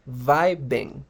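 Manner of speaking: "vibing" as VAI-beng, V then B; pronunciation demo. Shown as a demonstration. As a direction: say "vibing" clearly in two syllables, VAI-beng. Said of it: "la forma correcta de pronunciar".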